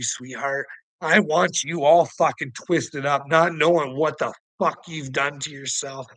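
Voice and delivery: ordinary delivery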